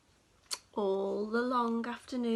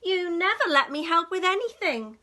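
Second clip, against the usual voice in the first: wailing; 4 semitones higher, 9 dB louder, faster than usual. Acted. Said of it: "wailed the duck".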